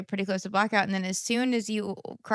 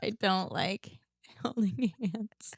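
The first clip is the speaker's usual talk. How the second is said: whisper; 5 dB quieter, slower than usual. Real, not acted. Shy joke about holding hands.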